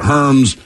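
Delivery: Hermes said as one syllable, "hurmz"; mispronounced brand name. Shown as a demonstration. Host quoting a co-host's version, Hermes as "hurmz". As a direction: say Hermes like "herms". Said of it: "Miles, you called it Hermes".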